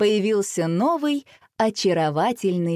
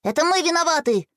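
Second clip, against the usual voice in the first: much higher, stress on мы; confessing; 9 semitones higher than usual. A narrator's reading. Boy confessing to parents, high guilty voice. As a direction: own up. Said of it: "признался Боря".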